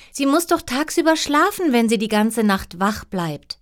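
high-voiced defence of her mother; protesting princess. A narrator's reading. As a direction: argue back high, easing down at the end.

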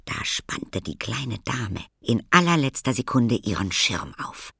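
ordinary delivery, nothing marked

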